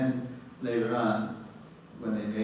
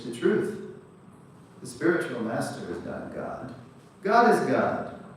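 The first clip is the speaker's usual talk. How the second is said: emphatic preaching; 3 semitones higher, 6 dB louder than usual. Real, not acted. Preaching climax.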